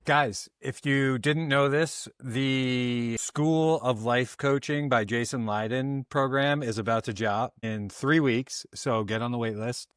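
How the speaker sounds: slow, measured announcer-style plug; mock ad read. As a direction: deliver a tongue-in-cheek program promo. Mock promo read for co-host.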